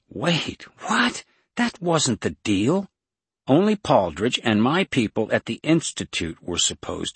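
high, loud disbelief; shocked protest. A narrator's reading. Liza protesting to Jason about the deal, high shocked objection. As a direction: object sharply, voice jumping up.

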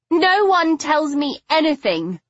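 stubborn. Acted. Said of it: "her chin taking a suddenly stubborn cast".

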